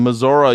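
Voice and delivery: "Missouri" said as "Mizzorah"; Missouri pronunciation. Retold or imitated. Comedian addressing Missouri locals, mock Missouri pronunciation. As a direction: end "Missouri" on "uh" instead of "ee". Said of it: "We call it Warsh in Missouri".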